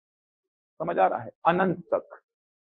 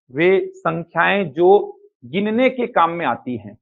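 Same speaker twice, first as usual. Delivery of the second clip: slightly lower, measured dictation with long pauses; 3 semitones lower than usual. Acted. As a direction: read out a definition for students to copy. Dictates the definition.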